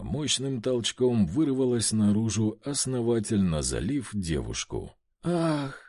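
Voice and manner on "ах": sharp moan of release. Acted. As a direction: let out a sudden moan. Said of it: "Послышался куда более громкий стон".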